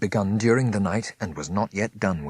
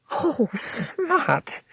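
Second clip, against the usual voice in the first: much higher, gushing sister; Miss Fanny gushing. A narrator's reading. Miss Fanny gushes to Smith, much higher. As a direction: gush with relief.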